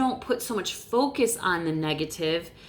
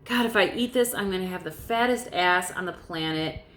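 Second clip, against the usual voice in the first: mopey self-pity. Retold or imitated. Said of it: "walking around thinking, "Woe is me".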